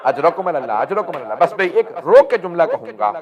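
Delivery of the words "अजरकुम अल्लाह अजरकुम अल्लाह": low, softer broken condolence; mourning, nearly sobbing; quiet grieving repeat; tearful refrain. Real, not acted.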